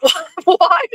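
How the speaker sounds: high, laughing disbelief; amused disbelief. Retold or imitated. Reacting to Blackie's demand, amused disbelief.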